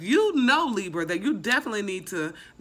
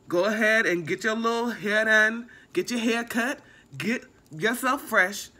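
mock public service announcement; 3 semitones lower than usual. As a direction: proclaim it like a hyped PSA. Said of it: "public service announcement complete".

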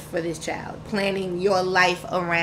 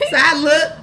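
laughing; 9 semitones higher, 8 dB louder than usual. Real, not acted. Laughing while resuming story.

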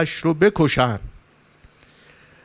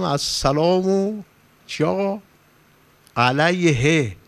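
«السلام» and «علیه» stretched slowly, a pause between them; slow drawn-out greeting; slower than usual. Shown as a demonstration. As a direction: draw the greeting out slowly, as if to someone absent.

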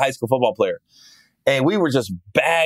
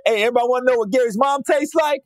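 mock shout; 9 semitones higher, faster than usual. Teammate shouting on bus.

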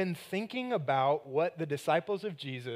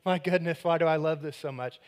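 mock delight. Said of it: "and I'm like".

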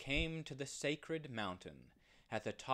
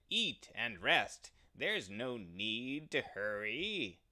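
tempting grass; 3 dB louder, slower than usual. Acted. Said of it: "disguised as a field".

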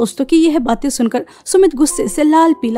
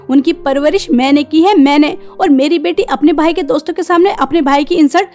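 stern mother-in-law; 4 semitones higher, 3 dB louder than usual. Acted.

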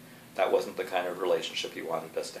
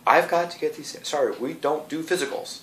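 retold irritation; 7 semitones higher, 3 dB louder than usual. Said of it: "so I was pretty irritated".

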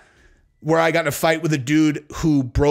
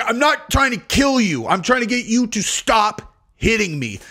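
retold exasperation; 4 semitones higher than usual. Imitates his exasperated reply.

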